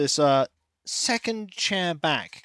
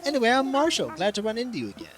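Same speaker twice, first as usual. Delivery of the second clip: Marshal; faster than usual. Acted. Villager on a research trip meeting someone, lightly swaggering. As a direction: introduce yourself as a breezy game character. Reads Marshal's dialogue aloud.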